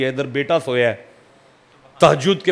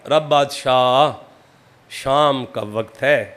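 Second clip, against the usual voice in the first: slow prayer; 2 semitones lower, slower than usual. Retold or imitated. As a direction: pray it gently and slowly. Saint prays with raised hands.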